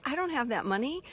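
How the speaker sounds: retold tearful protest. Caller tells dealership she can't pay the repair bill, mock tearful. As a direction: imitate a tearful protest, pitched high. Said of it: "I started to cry on the phone".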